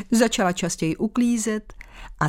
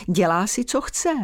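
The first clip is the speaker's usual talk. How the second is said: mock complaint. Mother echoes daughter's complaint.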